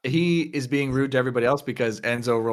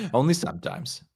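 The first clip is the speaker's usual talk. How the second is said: lightly voiced, amused old acquaintance. Game master as lounge regular gossiping about the back room, amused. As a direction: play a lightly affected, loose-tongued lounge regular.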